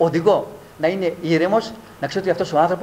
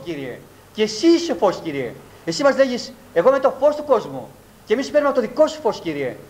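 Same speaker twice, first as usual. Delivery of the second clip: prayer. Acted. Pastor praying aloud over the church, fervent and pleading. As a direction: pray over the congregation with rising pleas.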